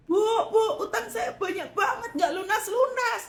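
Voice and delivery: high pleading whine; mock complaining congregant. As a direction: imitate a worried debtor.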